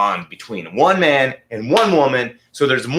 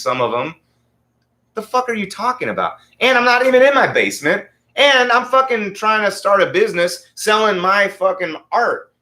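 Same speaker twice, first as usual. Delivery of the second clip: higher and faster, getting heated; exasperated, heated comeback; exasperated rant; 5 semitones higher than usual. Retold or imitated. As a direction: fire back in rising disbelief. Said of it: "I'm like".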